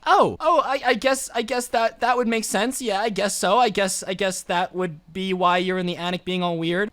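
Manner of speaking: searching for something polite; flustered stammer. Retold or imitated. Visitor answering the homeless strangers, awkward and flustered.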